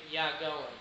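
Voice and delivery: "Ya going" said in one run, "going" with no G at the end; smooth and connected. Shown as a demonstration. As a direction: glide it as one legato phrase. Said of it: "It's so much easier to say".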